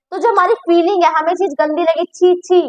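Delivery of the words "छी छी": disgusted. Shown as a demonstration. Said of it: "हम ऐसे बोलते हैं".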